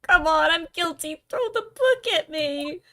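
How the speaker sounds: a lightly voiced jittery defendant, pitch up; eager confession. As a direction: beg to be found guilty, half-pleading.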